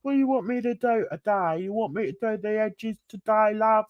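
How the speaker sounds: historical-drama peasant twang; peasant accent. Acted. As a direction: play a peasant servant asking the boss for orders. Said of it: "peasants that are sort of talk like that".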